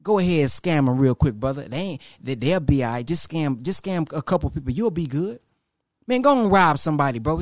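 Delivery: tempting voice. Retold or imitated. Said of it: "a person in that passenger seat".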